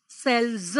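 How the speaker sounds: સેલ્સ with a buzzing z ending; demonstrated plural ending. Shown as a demonstration. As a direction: sound out the final z in સેલ્સ distinctly. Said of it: "એવું આપણે બોલીશું".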